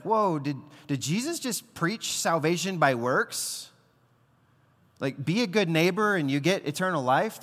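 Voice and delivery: a listener catching a problem, taken aback; surprised listener. Retold or imitated. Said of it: "you might be like".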